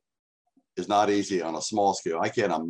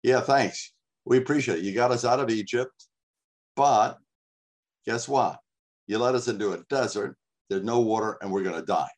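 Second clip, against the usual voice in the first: upset Israelites. Retold or imitated. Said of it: "I can hear them being so upset with Moses".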